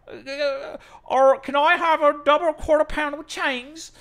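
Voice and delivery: high, loud exaggerated Australian drive-thru voice; mock Australian accent. Mocking an Australian fast food order, in a loud high Australian accent. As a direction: squawk it like a caricatured Australian. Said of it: "or however the fuck they talk".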